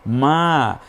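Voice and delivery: মা with a lengthened vowel; one-alif stretch. Shown as a demonstration. Teacher shows the alif stretch, মা held long. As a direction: draw out the vowel of মা. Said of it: "এক আলিফ টানার option".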